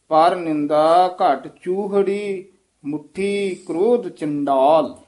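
ਚੂਹੜੀ held, then a short break before ਮੁੱਠੀ; pause after ਚੂਹੜੀ. Shown as a demonstration. Teacher shows the student where to pause. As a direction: rest briefly on ਚੂਹੜੀ. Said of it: "ਇੱਥੇ ਠਮਕ ਲਾ ਦੇਣੀ ਹੈ".

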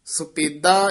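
ਸੁਪੇਦਾ with a rising hold before the pause; ਸੁਪੇਦਾ set apart by a short break; break after ਸੁਪੇਦਾ. Shown as a demonstration. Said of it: "ਇੱਥੇ ਯਮਕ ਲਾ ਦੇਣੀ ਹੈ".

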